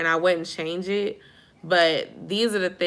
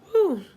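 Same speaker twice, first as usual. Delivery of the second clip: high yawning whew; real yawn; 12 semitones higher than usual. Real, not acted. Tired host yawns at her viewers, high whew. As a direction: let out a sleepy, high-pitched yawn. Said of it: "I'm just yawned all in y'all face".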